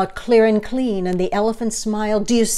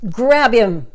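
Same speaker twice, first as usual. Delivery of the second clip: a mock shout, louder; 2 semitones higher, 5 dB louder than usual. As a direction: bark out the order like a mob. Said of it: "they shouted".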